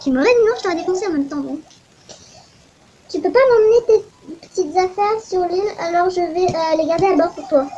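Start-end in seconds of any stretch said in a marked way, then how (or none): 0.0-0.5 put-on Russian accent. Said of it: "pourquoi je fais un accent russe?". 3.1-7.7 put-on Russian accent. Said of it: "pourquoi je fais un accent russe?".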